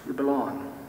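gentle, hushed assurance after a long pause; voice of love. Acted. Voice of love speaking to the listener, tender. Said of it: "as a voice of love that says".

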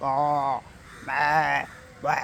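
drawn-out mock wail; mock crying. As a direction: imitate a bawling cry. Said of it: "ഇങ്ങനെ അങ്ങനത്തെ കരച്ചിൽ വേണ്ട". (കരച്ചിൽ അനുകരണം)

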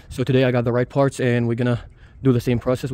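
shivering from the cold; cold, teeth-chattering voice. Real, not acted. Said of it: "I'm freezing right now".

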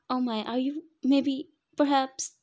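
high, loud, playful needling; teasing. A narrator's reading. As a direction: draw out the teasing question, voice climbing. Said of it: "I knew he was teasing me".

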